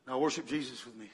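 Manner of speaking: low, soft, settled invitation; soothing. Retold or imitated. Grandpa leading his frightened wife in worship, low and soothing. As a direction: drop right down and lead gently.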